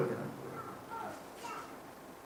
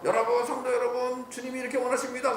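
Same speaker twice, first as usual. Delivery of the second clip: lightly imitated pulpit voice, higher; a hint of mock preaching, pitched up; preaching father; 4 semitones higher than usual. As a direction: mimic a pastor addressing the congregation. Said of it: "설교하는데 뒤에 앉아있다가 아버지가 막".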